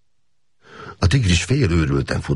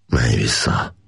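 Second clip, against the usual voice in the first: gently; 4 semitones lower, slower than usual. A narrator's reading. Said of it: "mondta gyöngéden".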